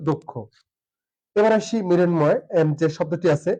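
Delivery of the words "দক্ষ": দক্ষ said "dok-kho" with doubled k; correct pronunciation. Shown as a demonstration. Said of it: "সঠিক উচ্চারণ হচ্ছে".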